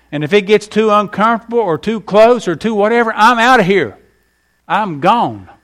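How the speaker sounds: put-on preachy warning to young people; advice to youth. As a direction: lay down the law to teenagers. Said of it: "this is what we used to tell them".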